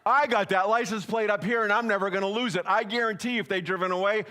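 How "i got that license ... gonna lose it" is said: louder, cocky bluff about the plate; acting confident. Pastor bluffing the trash dumpers, loud mock confidence. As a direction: sell it like you memorized the plate. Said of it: "But I'm acting like".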